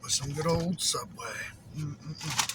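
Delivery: talking through crunching chips. Real, not acted. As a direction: mouth full of crunchy chips. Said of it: "excuse the crunching".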